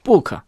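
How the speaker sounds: book with a vowel added after the final k; accented book. Shown as a demonstration. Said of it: "都会这么读".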